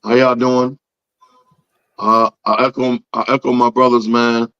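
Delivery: hoarse, lost voice; talking through a shot voice; raspy voice. Real, not acted. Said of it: "I have no voice".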